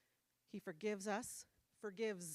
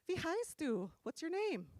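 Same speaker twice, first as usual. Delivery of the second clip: higher-pitched creepy coaxing; imitating skeezy dudes; 7 semitones higher than usual. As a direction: ask it with hammed-up slimy interest. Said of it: "these skeezy, slimy dudes".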